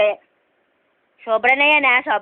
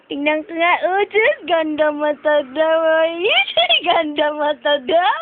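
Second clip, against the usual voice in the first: cooing admiration; 2 semitones higher, slower than usual. Real, not acted. Parent admires baby's pretty eyes, cooing. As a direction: coo slowly over a little one.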